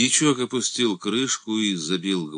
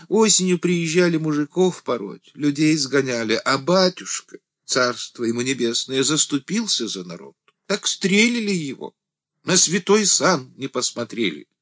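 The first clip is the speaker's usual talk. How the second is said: high and louder, telling a grief; grieving deacon; 10 semitones higher, 4 dB louder than usual. A narrator's reading. The deacon tells Andrey how the priest was shot, high and grieving. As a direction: cry out the priest's killing.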